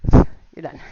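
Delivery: loud happy cheer. Real, not acted. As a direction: call it out big. Cheering end of workout.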